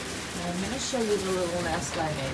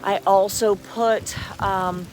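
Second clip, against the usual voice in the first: raised voice outside in the storm; loud over wind; 5 dB louder than usual. Real, not acted. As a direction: keep talking up over the wind.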